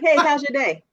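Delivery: cheerful, lifted greeting with a smile; smiling greeting. Retold or imitated. Wife greeting her husband coming home, smiling and bright. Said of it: "I just smile. I'm like".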